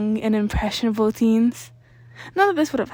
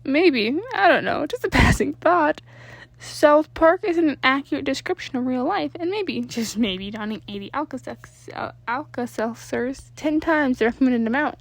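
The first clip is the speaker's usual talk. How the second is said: higher, louder mocking lecture; sarcastic; 4 semitones higher, 4 dB louder than usual. The speaker mocking Danny's South Park logic, sarcastic and higher. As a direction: drip with sarcasm.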